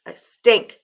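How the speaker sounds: owning it loudly to chat; loud declaration. Real, not acted.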